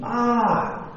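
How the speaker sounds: hammed-up yell of a hurt boy, not loud; mock scream. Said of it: "He screamed really loud".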